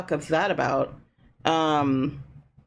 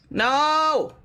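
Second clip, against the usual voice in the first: surprised; 7 semitones higher, 4 dB louder than usual. Real, not acted. Reacting to trick.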